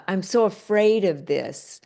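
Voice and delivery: a whispered, scared confession; whispered fear. Retold or imitated. Guest showing self-talk, whispering afraid words. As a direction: breathe it out like you're afraid. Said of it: "If we say".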